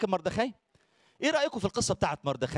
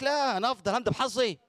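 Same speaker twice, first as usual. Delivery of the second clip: mocking complainer; 5 semitones higher than usual. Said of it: "قال لك".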